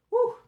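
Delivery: a real burp out loud. Real, not acted. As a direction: let out a burp. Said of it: "Sorry, I'm burping".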